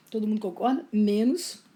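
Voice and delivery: choking mid-sentence, throat catching; words catching in the throat. Real, not acted. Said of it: "engasguei aqui".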